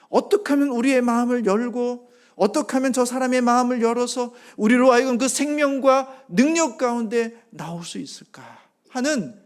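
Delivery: loud, high impassioned sermon voice; fervent preaching. Acted. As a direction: preach it out, building conviction. Preaching at full force. (열정적인 설교 톤)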